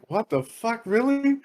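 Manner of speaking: high-pitched mock disbelief; incredulous. Brother being pulled off the chair, incredulous. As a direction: question it in amused disbelief, voice jumping up.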